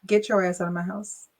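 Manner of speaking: sarcastically polite eviction; mock respectful. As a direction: fake politeness on the kick-out.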